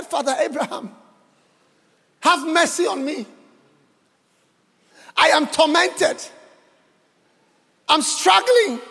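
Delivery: mildly anguished plea with long pauses; acted crying out. Rich man begging Abraham from hell, acted crying out. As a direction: plead haltingly as the suffering rich man, lightly acted. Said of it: "he cried, he said".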